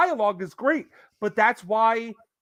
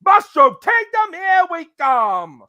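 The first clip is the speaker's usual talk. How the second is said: excited Mario line; 8 semitones higher, 10 dB louder, slower than usual. Pretend.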